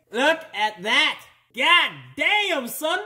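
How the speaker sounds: high, drawn-out amazement; impressed exclamation. Acted. Showing viewers the draining oil, high drawn-out amazement. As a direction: crow slowly, pitch climbing high.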